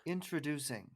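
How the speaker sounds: even, soft intro read; a first, flat try at the intro; plain announcer try. Shown as a demonstration. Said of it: "my voice isn't as deep as yours".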